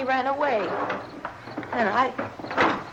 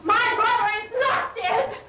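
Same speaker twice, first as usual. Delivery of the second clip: frantic insistence; 5 semitones higher than usual. Real, not acted. Insisting brother is alive.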